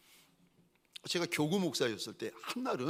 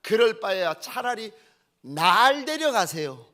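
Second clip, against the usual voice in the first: loud, raised-voice pleading; angry tearful protest; 4 semitones higher, 8 dB louder than usual. Retold or imitated. Mother protesting to God for her son, loud and desperate. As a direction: imitate a mother crying out in refusal. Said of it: "화가 나가지고 하나님 앞에 울며 불며".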